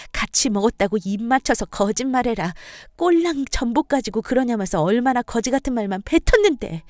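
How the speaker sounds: lightly acted wife, indignant and defiant; pleading anger, rising on the sharpest points; aggrieved wife. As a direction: pour out long-held grievances to your in-laws.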